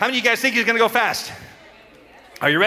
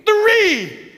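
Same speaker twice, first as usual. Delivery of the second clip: loud final count; 14 semitones higher, 5 dB louder than usual. Real, not acted. Counting down to child's reaction.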